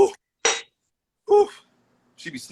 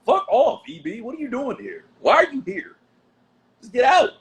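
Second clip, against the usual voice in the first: yelling; 11 semitones higher, 3 dB louder than usual. Real, not acted. Ordering visitor out.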